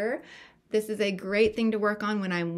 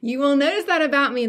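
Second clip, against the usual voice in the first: laughing; 6 semitones higher, 8 dB louder, faster than usual. Real, not acted. Laughing after joke about accent.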